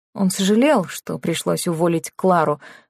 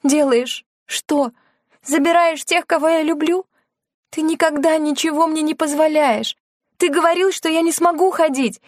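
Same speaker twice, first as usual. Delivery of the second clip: bitter; 9 semitones higher than usual. A narrator's reading. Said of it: "Лена горько усмехнулась".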